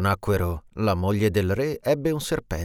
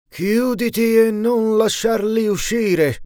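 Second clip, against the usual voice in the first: high, louder, slow roaring command; furious shout; 13 semitones higher, 6 dB louder, slower than usual. Acted. Evil genie screams at the door to stay shut, furious shout. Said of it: "Urlò alla porta".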